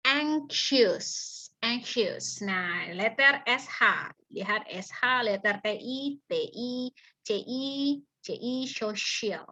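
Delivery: ordinary talk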